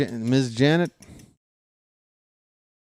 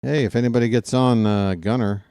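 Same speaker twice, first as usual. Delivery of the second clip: deflated; 2 semitones lower than usual. Shown as a demonstration. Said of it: "when I say it, it's kinda like".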